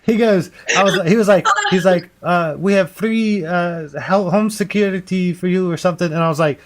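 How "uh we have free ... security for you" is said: higher-pitched mock Indian or Middle Eastern caller; put-on Middle Eastern or Indian accent, slightly raised; imitated Indian-or-Middle-Eastern accent. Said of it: "either Middle Eastern or Indian".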